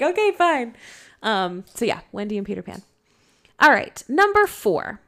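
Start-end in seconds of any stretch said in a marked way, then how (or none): 0.0-0.8 reluctant giving in. Retold or imitated. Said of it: "then he's like".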